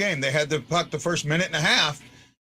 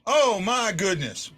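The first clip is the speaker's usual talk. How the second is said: overwhelmed cry; 4 semitones higher, slower than usual. Real, not acted. Overwhelmed by the winning goal.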